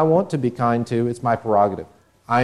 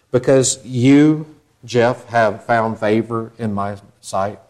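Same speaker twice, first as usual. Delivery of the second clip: lightly voiced God; 3 semitones lower, slower than usual. God's voice addressing congregant.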